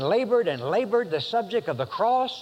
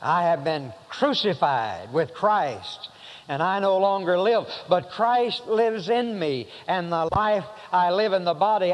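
scripture recitation. Acted. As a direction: proclaim the verse reverently. Reciting Galatians 2:20.

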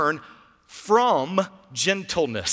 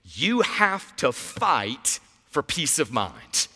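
slow sermon line; 4 semitones lower, slower than usual. Shown as a demonstration. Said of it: "Say that with me".

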